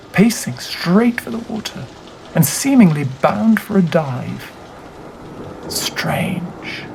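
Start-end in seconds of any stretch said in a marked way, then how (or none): 5.7-6.8 a single hushed word; a quiet whispered wonder; whispered aside. A narrator's reading. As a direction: breathe it out as a whisper.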